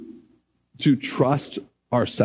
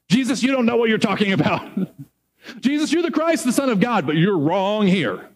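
cocky rebuke; 5 semitones higher than usual. Retold or imitated. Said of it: "the gall of Peter".

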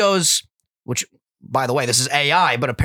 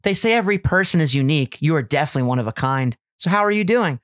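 cute voice; 4 semitones higher than usual. Retold or imitated. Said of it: "I'm gonna give Jessica a cute voice".

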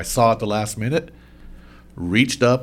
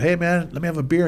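calling out; 8 semitones higher than usual. Retold or imitated. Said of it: "I said".

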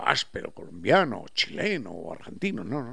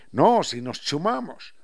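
Quichua-flavoured highland Spanish; 5 dB louder than usual. Retold or imitated. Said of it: "Estamos hablando quichua".

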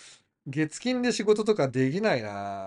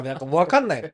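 ordinary talk, nothing marked

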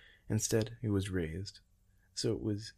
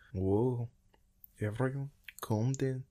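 higher, raised call to settle a crowd; calling for calm; 5 semitones higher, slower than usual. A narrator's reading. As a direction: call out to stop a fight. Calming armed crowd.

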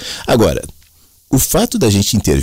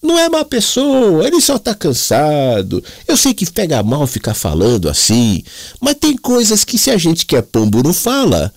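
put-on hammy Italian accent from Mooca, pitched way up; 12 semitones higher than usual. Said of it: "ele tinha um sotaque italianão, da Moca".

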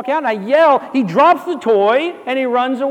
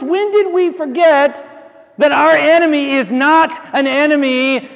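rousing rebuke; 2 semitones higher, slower than usual. Acted. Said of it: "come together and say".

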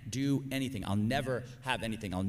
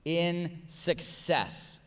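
drawn out; 4 semitones higher, much slower than usual. Shown as a demonstration. Preacher stresses the key idea, slow and drawn out. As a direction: stretch in success very slowly. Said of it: "It's a belief in success".

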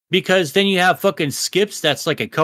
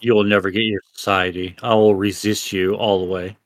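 heroic defiance; 7 semitones lower than usual. Pretend. Rebel defies new society.

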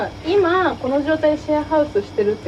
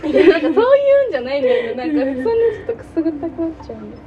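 laughing; 3 semitones higher, much faster than usual. Real, not acted.

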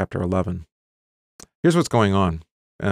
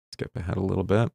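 normal talking voice

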